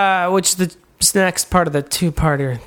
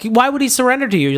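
Gosalyn voice; 6 semitones higher, faster than usual. Retold or imitated. Gosalyn voiced in a retold scene.

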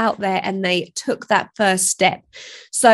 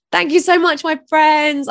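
excited; 6 semitones higher, 4 dB louder than usual. Real, not acted. Warm sign-off to listeners.

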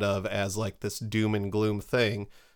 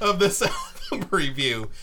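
laughing; 8 semitones higher than usual. Real, not acted. Laughing through the joke.

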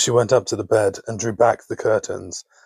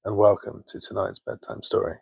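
sleep story narrator. A narrator's reading. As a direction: lull them gently toward sleep.

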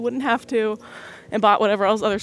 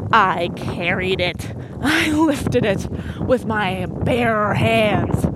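very slow, dramatic boast with a laugh; milk it like a proud strongwoman, tongue in cheek; hammed-up brag to dad, slow; mock heroic; much slower than usual. Boasting how she moved the bin.

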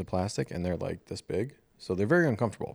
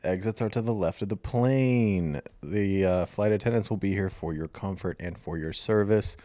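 pilot voice. Shown as a demonstration. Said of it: "Can you do it in a pilot voice".

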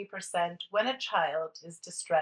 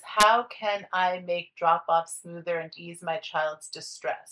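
slow, deliberate read of the question; slower than usual. Shown as a demonstration. Host rereads the listener question slowly for the guest. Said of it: "so I'm gonna say, it says".

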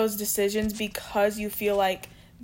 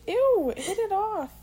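disgusted; 10 semitones higher, slower than usual. Real, not acted. Disgusted at spider on friend.

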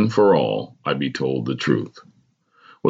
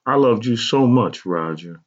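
higher, insistent mother's plea; 5 semitones higher than usual. A narrator's reading. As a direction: insist on it, pitched up then dropping. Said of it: "she insisted".

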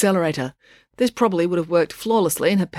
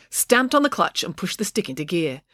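plain reading voice

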